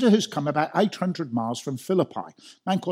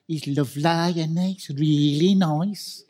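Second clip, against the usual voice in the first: put-on slow, broad Black Country accent; 3 semitones higher, slower than usual. Schoolgirl in a Dudley queue gushing about a boy, Black Country accent. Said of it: "I was in a queue in Dudley".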